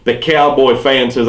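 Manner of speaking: usual speaking voice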